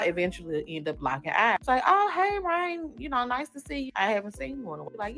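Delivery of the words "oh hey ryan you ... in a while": fake-friendly greeting. Little sister greets in boutique.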